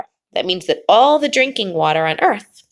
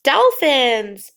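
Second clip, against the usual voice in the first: put-on slow, drawn-out reading for children; slow read-aloud; slower than usual. Shown as a demonstration. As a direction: read it slowly so kids can follow. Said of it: "try to read along with me".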